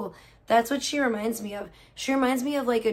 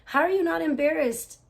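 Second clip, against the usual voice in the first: incredulous; 5 semitones higher than usual. Retold or imitated. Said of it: "And I was like".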